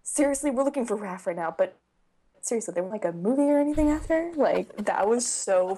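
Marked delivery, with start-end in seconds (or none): 0.0-4.3 quoting Leah. Retold or imitated. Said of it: "and Leah's like".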